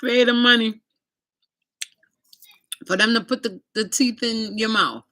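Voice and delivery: a hint of a Jamaican man giving advice; Jamaican guy advising. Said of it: "He said".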